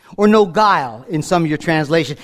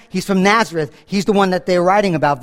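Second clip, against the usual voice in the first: normal talking voice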